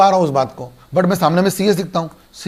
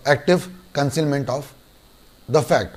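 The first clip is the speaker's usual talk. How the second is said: slow term; 3 semitones lower, much slower than usual. Shown as a demonstration. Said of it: "teacher states term slowly".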